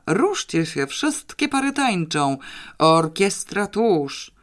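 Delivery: high, excited calling out to the dancers; euphoric dance call. Acted. Father dragging his wife into a dance, ecstatic high call. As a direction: call everyone onto the floor in joy. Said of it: "Pan Roman śpiewał, ryczał".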